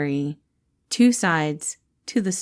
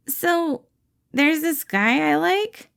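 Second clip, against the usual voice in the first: higher, slow, hesitant confession; Remus voiced; 8 semitones higher, slower than usual. Remus hesitantly confides in his boss, shy and slow. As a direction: ease into it shyly.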